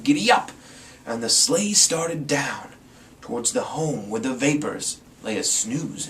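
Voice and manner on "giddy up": loud high call to the horse; Grinch calling out. Acted. Grinch urging his horse to go, loud call. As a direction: urge the horse on. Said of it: "the Grinch said".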